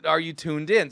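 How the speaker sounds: normal talking voice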